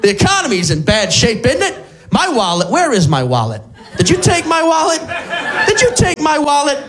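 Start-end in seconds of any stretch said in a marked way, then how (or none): 2.1-6.8 put-on confused old man. Joke with Alzheimer's gets confused.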